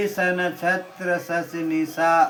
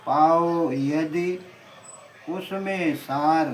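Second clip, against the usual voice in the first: poem recitation. Acted.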